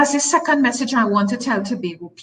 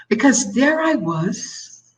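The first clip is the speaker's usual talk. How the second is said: crying; 3 semitones higher, slower than usual. Real, not acted. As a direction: voice breaking into real tears, slow. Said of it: "And I started to cry".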